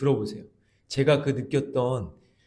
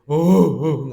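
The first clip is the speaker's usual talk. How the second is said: retold sobbing; 5 semitones higher, 11 dB louder, much slower than usual. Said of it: "엄청 크게 울었는데".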